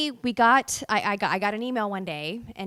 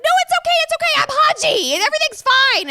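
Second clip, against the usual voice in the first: high, loud overexcited reassurance; excited voice reassuring a scared mother; 12 dB louder than usual. Retold or imitated. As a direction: still too thrilled to calm her down. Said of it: "I'm like".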